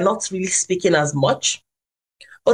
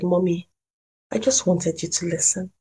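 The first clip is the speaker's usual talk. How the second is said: softer, hushed daughter's plea; very low voice; 5 dB quieter than usual. Retold or imitated. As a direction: say it quietly, as a hurt child. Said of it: "in a very low voice".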